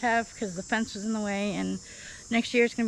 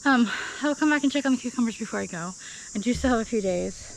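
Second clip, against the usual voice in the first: out of breath; 2 semitones higher than usual. Real, not acted. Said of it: "I'm always out of breath".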